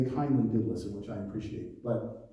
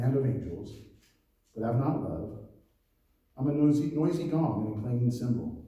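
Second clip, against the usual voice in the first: scripture reading; 2 semitones lower than usual. Acted. Reads scripture aloud.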